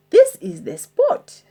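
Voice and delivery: a hint of a bossy pirate; pirate captain voice. Captain announcing the treasure spot, lightly voiced pirate. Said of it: "said Handkerchief".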